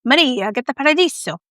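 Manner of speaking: hammed-up Italian movie line; playful mock Italian, swooping on the key words; Italian accent. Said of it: "my Italian pronunciation".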